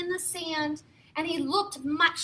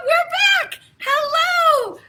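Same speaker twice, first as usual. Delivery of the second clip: high, louder bright hello; cheery hero greeting; 11 semitones higher, 8 dB louder than usual. Pretend. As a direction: greet the kids as the superhero. Superhero greeting after reveal.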